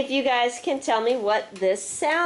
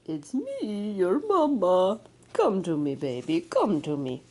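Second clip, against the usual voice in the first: mama walrus; 6 semitones lower than usual. Acted. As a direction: call your baby in gently as the mother. Mother walrus calls her baby.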